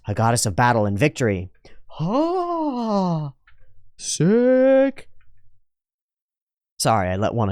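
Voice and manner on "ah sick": high falsetto yelp of delight; excited cry. Real, not acted. Viewer reacting to the anime, high excited cry. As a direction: squeal it out, thrilled.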